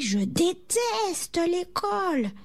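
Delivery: high, slow, drawn-out complaint; exasperated. A narrator's reading. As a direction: wail it like a fed-up child. Fed-up pupil after being punished.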